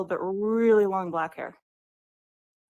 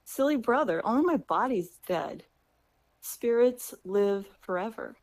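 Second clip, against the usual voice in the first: reassuring. Retold or imitated. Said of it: "reassures him".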